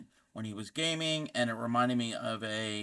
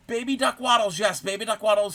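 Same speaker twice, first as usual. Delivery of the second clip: excited gasp; 9 semitones higher, 7 dB louder than usual. Real, not acted. Excited recognition of a viewer.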